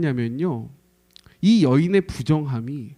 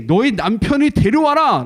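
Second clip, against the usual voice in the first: firm command; 6 semitones higher, 6 dB louder than usual. Retold or imitated. Jesus quoted commanding woman.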